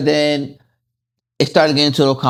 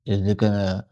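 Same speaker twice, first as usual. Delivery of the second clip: anxious inner thought; 6 semitones lower, 6 dB quieter than usual. Retold or imitated. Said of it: "a question in my mind".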